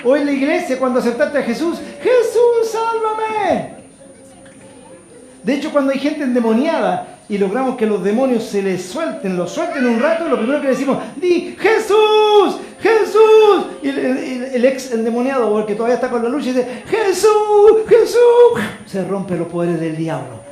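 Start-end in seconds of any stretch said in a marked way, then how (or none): 2.0-3.8 high, pleading cry of a new convert; crying out to Jesus. Retold or imitated. 11.1-13.6 high, very slow, loud command; commanding shout. Retold or imitated. 16.9-18.6 high, loud near-sung cry; shouted name. Retold or imitated. Ex-possessed crying the name.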